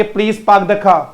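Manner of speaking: पार्क as "paak" and car as "khaa", both R's silent; phonetic English pronunciation. Shown as a demonstration. Teacher shows pupils the phonetic sentence, silent R's. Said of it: "तो हम बोलेंगे".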